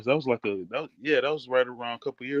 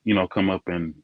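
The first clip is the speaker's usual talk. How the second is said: muffled earbud mic, dull sound; like talking through a door; 2 semitones lower than usual. Real, not acted. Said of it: "next minute you sound like you muffled".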